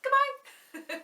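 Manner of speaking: quick squeaky goodbye; snappy and high for the kids; fast goodbye. Shown as a demonstration. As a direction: rattle it off in a blink. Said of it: "Let's say goodbye as fast as we can".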